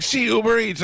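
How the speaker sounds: very high imitated Hispanic-Asian accent; hammed-up driver with mixed Hispanic-Asian accent. Driver confirming to frustrated customer, high Hispanic-Asian accent. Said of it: "a Hispanic gentleman who sounded Asian".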